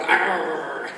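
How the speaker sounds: drawn-out mock "arr" growl; playful roar of a macho car; imitated car growl. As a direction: growl like an aggressive car aimed at young men. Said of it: "so it should sort of go".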